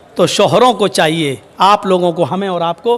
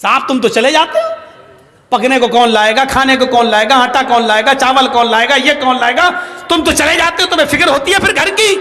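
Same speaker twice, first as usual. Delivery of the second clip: nagging, rising complaint, climbing higher at the end; mock scolding wife; 4 semitones higher, faster than usual. Wife scolding her husband about who brings food, mock nagging. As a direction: scold him like a fed-up wife, each line rising. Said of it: "عمر کے اوپر برس رہی ہیں".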